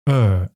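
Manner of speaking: "er" said as the vowel of "earth", slow; er sound. Shown as a demonstration. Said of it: "as in earth".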